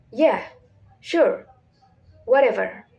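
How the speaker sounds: flat, disinterested brush-off; bored, level tone. Shown as a demonstration. Teacher giving flat intonation example, bored and disinterested. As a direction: say it with no interest at all. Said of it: "used to show boredom, disinterest".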